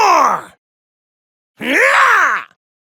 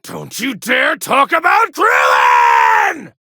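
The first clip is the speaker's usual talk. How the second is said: angry shout; 3 semitones lower than usual. Acted. Rage over fallen friend.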